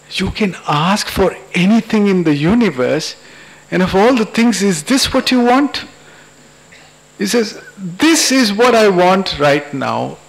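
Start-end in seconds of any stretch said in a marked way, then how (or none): 0.1-5.8 higher voice lifting into an incredulous question; smiling. Acted. Vishnu questioning the husband's odd wish, smiling and higher. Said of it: "Vishnu smiles at him and says". 7.8-10.2 slow, higher, firmly weighted words; insistent. Acted. Husband insisting to the god on his wish, slow and insistent.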